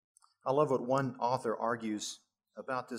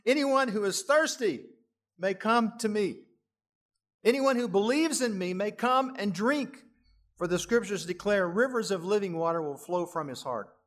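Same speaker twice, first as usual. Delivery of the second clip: higher, louder crowd proclamation; calling out to a crowd; 7 semitones higher, 6 dB louder than usual. Retold or imitated. Jesus standing up in a festival crowd, calling out loud. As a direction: call out over a festival crowd. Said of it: "he stands up and he says".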